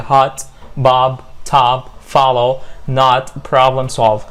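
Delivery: HOT, BOB, TOP with long open "ah"; slow word list, stretch each O into "ah"; long AH vowel. Shown as a demonstration. Teacher drilling American vowel words, slow long-vowel demonstration. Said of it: "Long vowel برضه بس مش كده".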